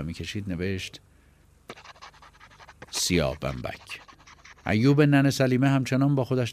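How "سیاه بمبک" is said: put-on tearful boy.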